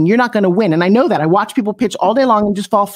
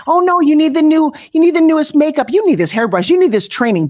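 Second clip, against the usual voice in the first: mock sales pitch; 7 semitones higher than usual. Mocking marketers who push products.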